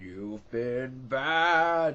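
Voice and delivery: loud, drawn-out, badly stretched demonic voice. Retelling how the main character's dad keeps saying a line, in demonic father voice. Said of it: "that was a terrible impression, but as this sort of demonic force".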